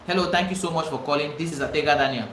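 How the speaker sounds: professional greeting. Shown as a demonstration.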